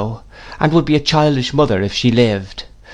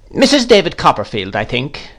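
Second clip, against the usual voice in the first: higher-pitched, pointed "Missus David Copperfield"; emphatic address; 5 semitones higher than usual. A narrator's reading. Miss Betsy addressing the widowed mother, emphatic. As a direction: stress "Missus David Copperfield" high, let "I think" drop. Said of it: "the emphasis referring perhaps to".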